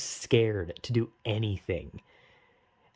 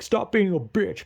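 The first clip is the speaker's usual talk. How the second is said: a sharp, bossy bark, raised up and louder; mock scolding, pitched higher and louder; mock angry snap; 5 semitones higher, 4 dB louder than usual. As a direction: play the stern one barking an order, half in jest. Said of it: "this sounds like I'm, like, angry".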